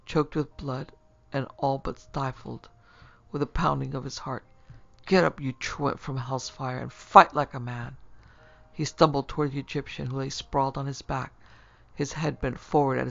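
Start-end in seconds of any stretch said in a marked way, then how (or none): 5.1-8.0 angry challenge. Acted. Fullerton goading the Egyptian to fight, swelling into a yell. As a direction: taunt him, rising to a loud yell on the end. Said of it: "His voice was hoarse and croaking".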